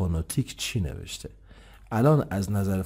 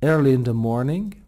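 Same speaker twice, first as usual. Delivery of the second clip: early in the morning, louder and slow; emphatic correction; 6 semitones higher, 8 dB louder, much slower than usual. Shown as a demonstration. Teacher correcting a misread phrase, emphatic and slow. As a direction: hit early hard to fix the slip.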